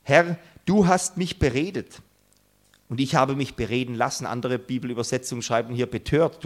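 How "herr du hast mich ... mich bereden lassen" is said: reproachful. Retold or imitated. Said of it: "sagt er zu Gott vorwurfsvoll".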